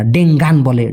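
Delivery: ডেঙ্গান said with a hard g; ডেঙ্গান as many say it, with the g sounded; ডেঙ্গান with g pronounced; common way. Shown as a demonstration. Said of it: "অনেকে উচ্চারণ করতে পারে না".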